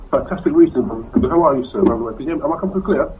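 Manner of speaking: muffled voice, like a hand over the mouth. Real, not acted. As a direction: talk through a covered mouthpiece. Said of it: "sorry, a little bit muffled there".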